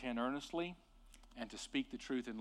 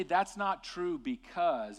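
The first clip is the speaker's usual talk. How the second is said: said in love; 5 semitones higher, 4 dB louder, slower than usual. Shown as a demonstration. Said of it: "and you say it in love".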